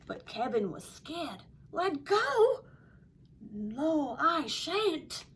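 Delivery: story read with an attempted Australian accent; lively storyteller trying an Australian accent. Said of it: "my attempt at an Australian accent".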